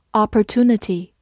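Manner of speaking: "opportunity" said the American way; American pronunciation. Shown as a demonstration. Teacher showing learners the alternative, American-accented "opportunity". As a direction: give "opportunity" in an American accent, with a plain "too". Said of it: "美式发音也可以读作".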